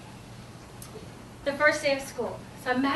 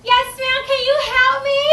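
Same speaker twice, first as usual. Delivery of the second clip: put-on high, loud kid plea; little child voice; 11 semitones higher, 12 dB louder than usual. Child asks the teacher for help, high loud little-kid voice. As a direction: ask like a small child needing help.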